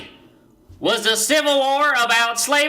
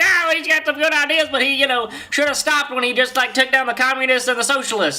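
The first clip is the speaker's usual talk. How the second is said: dog voiced as a person; 3 semitones higher than usual. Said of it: "Can you imagine a dog being like".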